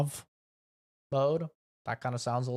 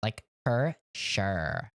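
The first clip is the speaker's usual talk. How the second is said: put-on Valley Girl accent; 3 semitones lower, much slower than usual. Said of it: "My sister talks like that".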